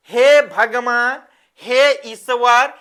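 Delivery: slow, drawn-out appeal to God; mildly acted parents' plea; माता-पिता की पुकार. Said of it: "तो उनके माता पिता बोलते हैं". (भगवान से खींचकर गुहार)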